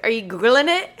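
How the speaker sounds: put-on Irish accent; weird Irish accent. Asking friend Emma, in a weird Irish accent. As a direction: question in a dodgy Irish accent. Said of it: "talking in this weird Irish accent".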